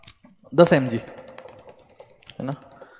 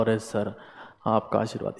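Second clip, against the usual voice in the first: humble pleading; 8 semitones lower, 11 dB quieter than usual. Pretend. Student bowing to the examiner.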